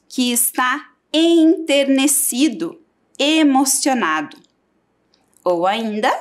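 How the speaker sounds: teacher reading from the dictionary; reading a definition. Shown as a demonstration. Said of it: "O que significa comovido?".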